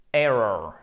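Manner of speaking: "Error" with English r, stress on "Er". Shown as a demonstration. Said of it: "Un mot qui ressemble beaucoup au français".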